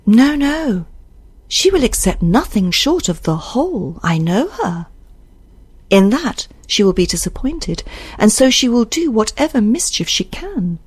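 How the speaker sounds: lightly voiced anxious character, pitch lifted; a touch of agitated certainty; insistent Isabel. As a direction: insist on the danger with emphatic swoops. Reader voices Isabel in dialogue.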